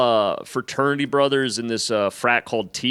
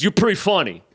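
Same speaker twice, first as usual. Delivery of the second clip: raised-pitch imitation of the frat guy, building; grudging welcome with warning; 6 semitones higher than usual. Frat guy lets the stranger stay but warns him, emphatically. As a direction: welcome him, then land a mock-stern warning.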